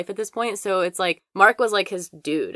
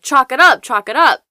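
higher, much louder mock yell; retold shouting; 6 semitones higher, 9 dB louder than usual. Mark banging on Bobby's door, imitated loud shout. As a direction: bark the chant through the door. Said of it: "Mark keeps shouting".

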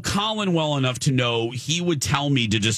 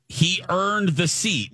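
slow, higher-pitched, every word leaned on; all caps emphasis; 4 semitones higher, slower than usual. Retold or imitated. Host reads out a listener's text, emphatic all caps. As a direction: read it out like capital letters. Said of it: "And then in all caps".

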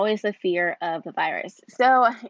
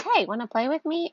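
put-on little girl voice; 8 semitones higher than usual. Toddler daughter quoted inviting girl.

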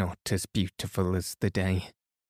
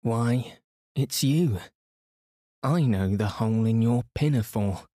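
excited cry. A narrator's reading. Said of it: "And then Cyril cried".

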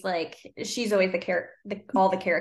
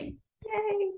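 sarcastic yay; 13 semitones higher, 5 dB quieter than usual. Retold or imitated. Mock cheer at vague answer.

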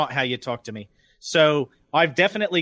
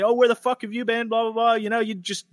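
higher-pitched mild mock yell; yelling boss; 5 semitones higher than usual. Boss scolding late worker, mild mock yelling. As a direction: imitate a boss telling someone off. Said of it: "yelling at me".

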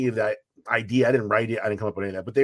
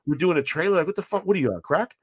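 a higher, incredulous retold rant at the flaky actress; exasperated rant; 5 semitones higher than usual. Retelling the phone fight with the actress, exasperated and incredulous. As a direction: voice climbing in angry disbelief as you tell it.

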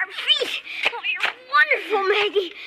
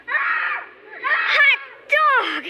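thrilled; 5 semitones higher than usual. Acted. Boy thrilled by trick offer.

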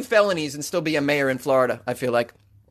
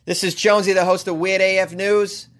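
Boston accent. Real, not acted. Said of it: "I'm doing it with my thick-ass Boston accent".

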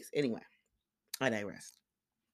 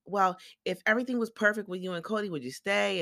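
Robin; 5 semitones higher than usual. Retold or imitated. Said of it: "here come Robin with the what if questions".

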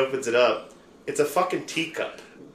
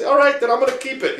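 laughing; 12 semitones higher, 6 dB louder than usual. Retold or imitated. Retold friend, laughing.

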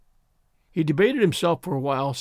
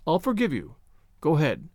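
ordinary delivery

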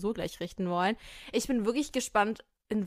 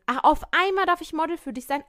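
sarcastic; 6 semitones higher, 5 dB louder than usual. Acted. Sarcastic reply to Brand.

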